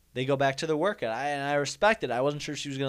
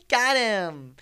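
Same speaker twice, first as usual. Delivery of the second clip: high laugh then a louder got him; girl laughing at him while filming, high gloating laugh; mocking laugh; 8 semitones higher, 8 dB louder than usual. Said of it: "She was like".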